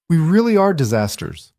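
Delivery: high, lightly voiced teary laugh; a hint of laughing while still crying; laughing through tears. A narrator's reading. Elena laughing through tears after the kiss. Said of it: "Elena laughed through her tears".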